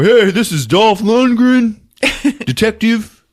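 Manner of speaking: a hint of action hero on the radio; lightly voiced radio call. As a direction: act out calling for backup. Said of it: "Dolph gets on the radio".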